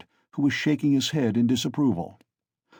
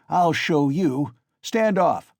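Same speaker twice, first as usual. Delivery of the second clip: slow, loud, rising to high; frantic scream; 5 semitones higher, 4 dB louder, slower than usual. A narrator's reading. Mikolka raging at the crowd to stand back, slow loud frantic yell. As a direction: rage at them to get back. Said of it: "Mikolka screamed frantically".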